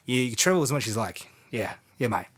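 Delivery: put-on Kiwi accent. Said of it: "My, my Aussie, uh, Kiwi accent".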